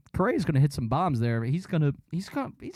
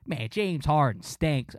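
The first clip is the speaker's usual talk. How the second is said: grumpy Delco mutter; 4 dB quieter, slower than usual. Retold or imitated. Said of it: "he was pissed".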